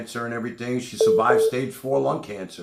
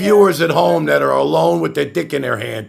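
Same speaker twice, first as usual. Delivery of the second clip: loud; 4 semitones higher, 9 dB louder than usual. Real, not acted. Hyping up the live audience.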